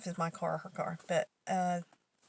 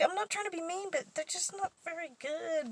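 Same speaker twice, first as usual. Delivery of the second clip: gentle coworker; 10 semitones higher than usual. Retold or imitated. Coworker gently criticises paintings.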